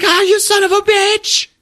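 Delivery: high, agonized comic cursing; pained mock yell. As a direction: howl it as if just shot. Man shot in leg yells.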